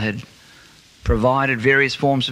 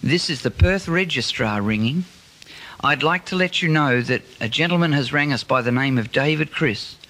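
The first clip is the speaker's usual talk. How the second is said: muffled voice; 2 semitones higher than usual. Retold or imitated. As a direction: voice muffled through a handkerchief. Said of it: "muffled my voice".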